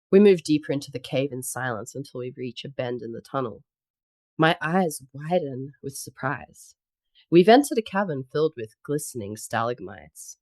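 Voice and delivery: composed romance audiobook reading; story narration. Acted. Reader telling of snow monster carrying heroine, story narration. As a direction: read the tale in measured phrases, settling at the ends. Reads fiction excerpt aloud.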